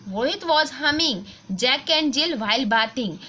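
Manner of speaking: put-on slow, careful textbook reading for children; reading aloud slowly. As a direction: read each word clearly for the class. Reads the exercise sentence. (बच्चों के लिए धीरे-धीरे पढ़ना)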